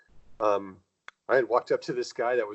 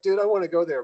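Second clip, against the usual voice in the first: higher, louder mock disbelief; mock incredulous; 9 semitones higher, 5 dB louder than usual. Telling host he balked at Earth, mock incredulous. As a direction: play up his own disbelief. Retold reaction to war planet.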